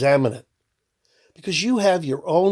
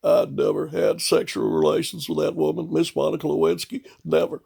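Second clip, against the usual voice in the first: lightly voiced denying politician; a hint of a solemn denial; Bill impression. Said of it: "how about this guy?".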